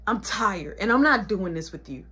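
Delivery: low, restrained refusal; fed-up mother. Acted. Mama done arguing with child, low fed-up voice.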